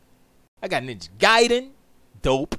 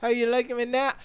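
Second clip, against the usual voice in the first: mock British accent; loosely imitated British executive; Jim Ryan impersonation; 4 semitones higher than usual. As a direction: put on a rough British accent, teasing. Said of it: "Jim Ryan's gonna be like".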